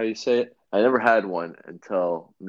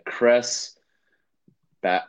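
awful German accent; 2 semitones higher, slower than usual. Shown as a demonstration. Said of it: "Sorry for just my awful German interpretation accent".

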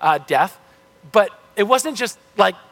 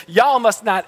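hammed-up American South accent; Southern accent; 3 semitones higher than usual. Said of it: "A serpent does not have a Southern accent".

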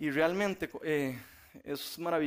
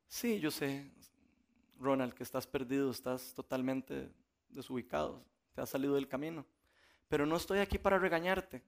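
softer, tender, unhurried; gentle voice of grace; 3 semitones lower, 4 dB quieter than usual. Acted. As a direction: reassure Ronald without any reproach. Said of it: "la gracia de Dios nos dice".

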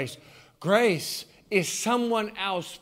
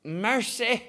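"Mercy" drawn out Southern style, sighed; Southern exclamation "Mercy"; 3 semitones higher than usual. Shown as a demonstration. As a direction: say "Mercy" like a tired Southern mother. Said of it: "it's saying like this".

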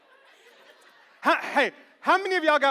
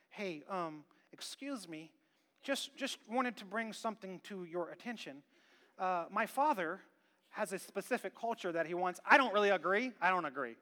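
timid polite complaint; 3 semitones lower, 5 dB quieter than usual. Retold or imitated. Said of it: "see the bad culture and go".

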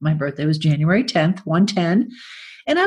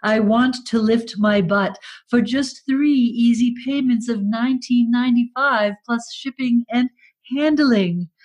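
upbeat infomercial pitch; 5 semitones higher than usual. Pretend. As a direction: sell it like a TV ad. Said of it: "Yes, Leandro".

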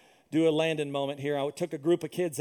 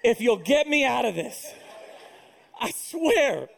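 half-crying prayer; 9 semitones higher, 3 dB louder than usual. Retold or imitated. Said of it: "literally halfway crying".

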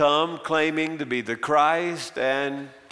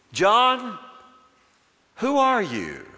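questioning priests; 7 semitones higher, slower than usual. Acted.

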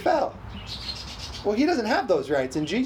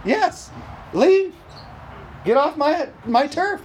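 high, forceful short orders; commanding rebuke; 7 semitones higher, slower than usual. Acted. Preacher drives the devil off his turf, commanding. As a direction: order an intruder out, voice raised.

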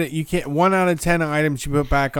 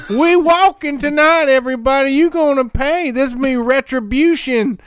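prison guard; 9 semitones higher than usual. Pretend. Mock warden threatening the workers.

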